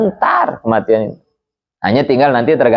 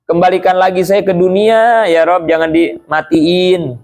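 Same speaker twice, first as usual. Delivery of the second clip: raised, pleading cry of a dying sinner; dying man begging God; 5 semitones higher, slower than usual. Acted. Dying sinner crying to God for another chance, pleading. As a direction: beg to be sent back, voice lifted higher. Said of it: "mereka teriak kepada Allah".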